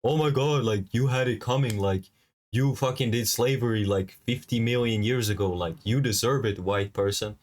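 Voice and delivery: a touch of a mocking commenter voice. Reading out hateful online comments in a lightly mocking voice. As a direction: lightly mimic the smug commenters. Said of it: "real people are commenting like".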